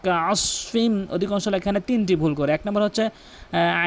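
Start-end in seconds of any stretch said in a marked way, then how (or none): 0.0-1.1 slow, long-drawn tajweed chant; measured Quranic chanting; Quran recitation. Acted. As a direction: recite with stretched, sustained vowels.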